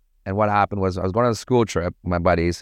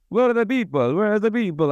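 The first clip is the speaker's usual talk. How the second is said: much higher, mock-panicked owner voice; big Italian owner; 11 semitones higher than usual. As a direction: ham up the worried venue boss. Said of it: "this big fat Italian guy".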